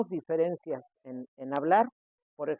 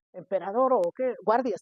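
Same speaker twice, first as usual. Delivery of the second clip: mock emperador; 4 semitones higher than usual. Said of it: "como dice el de las galletas".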